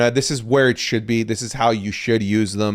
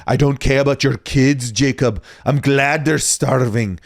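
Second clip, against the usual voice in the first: bad Scottish accent. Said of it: "I'm a terrible, uh, Scottish accent man".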